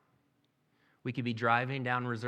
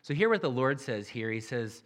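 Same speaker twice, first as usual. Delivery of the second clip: usual speaking voice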